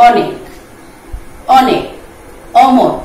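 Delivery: অনেক and অমর with an open initial অ; open vowel demo. Shown as a demonstration. Teacher showing students free open pronunciation: অনেক, অমর with open অ. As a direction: say the অ of অনেক, অমর freely, unrounded. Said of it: "এটা হবে তোমার বিবৃত উচ্চারণ".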